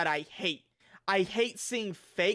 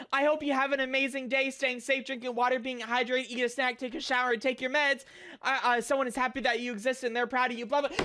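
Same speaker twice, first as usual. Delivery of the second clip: lightly higher, fast sugary voice mocking a cheery message; mock sweet message; 4 semitones higher, faster than usual. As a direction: parrot the fake positivity, syrupy and quick. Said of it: "they come into the server saying".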